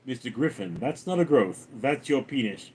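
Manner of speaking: put-on character voice; favorite impression. Shown as a demonstration. Streamer doing a favorite impression, addressing Mister Griffin in character. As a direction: deliver the quote in a character's voice. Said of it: "it's one of my favorite impressions".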